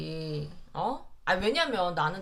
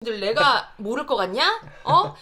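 imitating Elon Musk; 5 dB louder than usual. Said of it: "이러고 이제 있을 거란 말이야".

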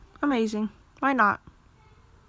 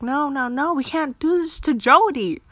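loud refusal; 4 semitones higher, 7 dB louder than usual. Real, not acted.

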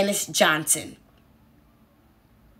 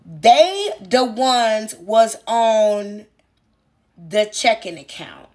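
mock quote; much slower than usual. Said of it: "the next thing you said".

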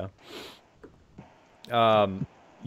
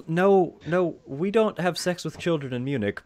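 protesting townsperson; 6 semitones higher than usual. Acted. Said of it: "he kinda goes by".

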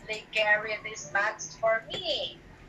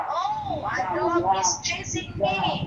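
mock fright; 5 semitones higher, 3 dB louder than usual. Shown as a demonstration. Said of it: "And this one".

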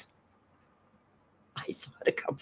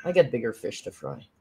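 tough guy voice; 4 semitones lower, 4 dB quieter than usual. Pretend. Cat voice, low and distant.

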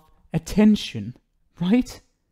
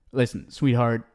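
ordinary delivery

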